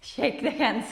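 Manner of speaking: laughing excited hi; fond excited hi. Pretend. Teacher acts a friend who missed you, excited. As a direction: greet like you missed them so much. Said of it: "somebody's missing you so much and says".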